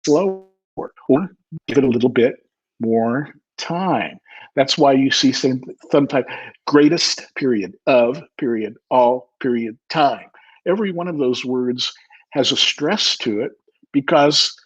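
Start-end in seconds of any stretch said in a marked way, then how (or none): 0.1-4.2 "slower" and "more time" set apart by pauses; slower for emphasis. Shown as a demonstration. Teacher showing how to really emphasize something, slowed down. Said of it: "I just say it slower". 6.7-10.2 "greatest", "of", "all", "time" each separated and weighted; every word stressed. Shown as a demonstration. Teacher reading a period after each word, separately stressed. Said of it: "you tend to read those slower".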